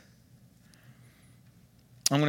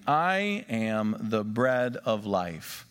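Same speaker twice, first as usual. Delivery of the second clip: "I am the bread of life" drawn out slowly, word by word; slow emphatic reading; 4 semitones lower, much slower than usual. Shown as a demonstration. Pastor rereading the verse for the congregation, slow and weighty. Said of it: "let's read that verse again".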